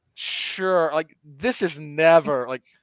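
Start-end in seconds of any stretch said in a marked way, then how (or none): none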